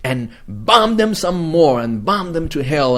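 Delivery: mock a hawkish host, drawing out each bomb; quoting a TV host. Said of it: "She said".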